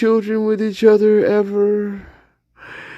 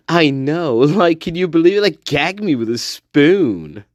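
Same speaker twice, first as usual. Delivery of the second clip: put-on valley girl; 3 semitones lower than usual. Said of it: "She's like".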